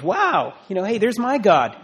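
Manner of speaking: imitated excited fan. Speaker voicing everybody's reaction to the all-star cast, mock excitement. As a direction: play the crowd delighted to spot a favourite. Imitates delighted audience spotting their god.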